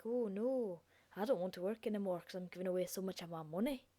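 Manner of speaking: put-on Fred moaning in a light, unplaceable accent; odd put-on accent. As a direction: play the worker dismayed, in a made-up accent. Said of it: "I don't even know where that accent was from".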